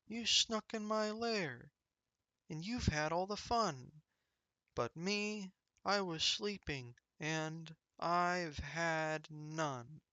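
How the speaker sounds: a sulky big bear whining; whiny bear. Acted. Bear complains sadly.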